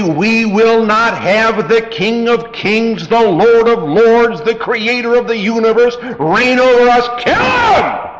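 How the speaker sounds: loud preached crowd cry, building to a high shouted "kill him"; crowd screaming. Retold or imitated. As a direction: shout it like the mob rejecting the king. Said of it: "in screaming audibly".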